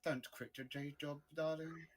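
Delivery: softly delivered deadpan put-down; understated, dry dismissal. Acted. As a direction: heckle the bad comic, quietly unimpressed.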